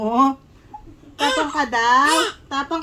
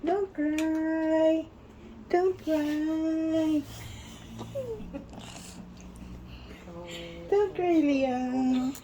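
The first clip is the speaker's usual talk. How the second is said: soothing; 8 dB quieter, much slower than usual. Real, not acted. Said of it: "English speaking ka".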